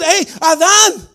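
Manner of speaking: loud, high scolding call; mock rebuke to Adam. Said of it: "yo no le puedo decir".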